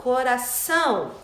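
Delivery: "coração" slow, with a nasal ão at the end; slow "coração", stressed on the nasal ÇÃO. Shown as a demonstration. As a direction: let the last syllable of "coração" ring through the nose. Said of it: "dá esse som nasal".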